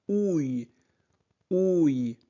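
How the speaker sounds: « ouille » appuyé; son ouille. Shown as a demonstration. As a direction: dire « ouille » comme dans grenouille. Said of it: "se prononce". (« ouille » répété clairement)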